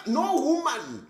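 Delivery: drawn-out, slow "No woman"; slow and deliberate. Shown as a demonstration. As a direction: say "No woman" slowly, stretching each word.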